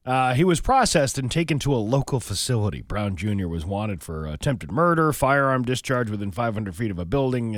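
reading a crime report aloud; matter-of-fact newsreader delivery; news read. Acted. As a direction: read the local news story in a steady announcing tone. Reads out a local news report.

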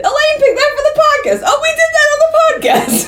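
high, fast, laughing retelling; giggling through her own words; laughing quote. Retold or imitated. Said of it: "I said".

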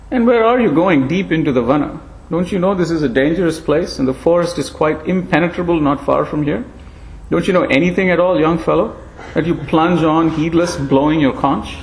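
thin ancient voice, gently chiding; frail old monkey. Acted.

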